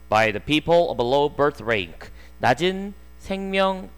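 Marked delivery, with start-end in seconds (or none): 0.1-2.1 very slow, word by word textbook reading; slow read-aloud. Shown as a demonstration. Teacher reading the sentence slowly to students. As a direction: spell each English word out slowly for the class.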